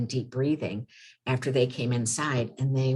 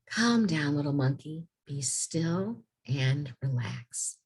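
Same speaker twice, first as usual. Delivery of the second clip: gentle read-aloud, slowing down and softening at the end; soothing storybook voice. A narrator's reading. Teacher reading the calming page to the kids, gentle and slow.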